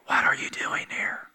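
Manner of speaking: voiceless stage whisper. Shown as a demonstration. Preacher shows the congregation what to say, whispered. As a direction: whisper it to someone near you. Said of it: "turn to somebody near you and whisper".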